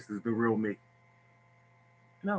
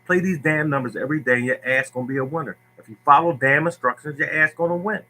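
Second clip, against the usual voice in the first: tough love. Shown as a demonstration. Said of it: "No, that don't work with y'all".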